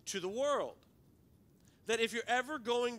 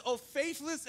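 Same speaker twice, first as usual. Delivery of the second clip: a sassy, higher-pitched jab at faithless; sassy Jesus; 6 semitones higher, slower than usual. Retold or imitated. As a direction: give the line some sass. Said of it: "and sassy Jesus says".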